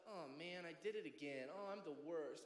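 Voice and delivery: mock pity party. Sinner moping after doing it again, mock pity party. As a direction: wallow lightly in imitated self-reproach. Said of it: "you have a little pity party".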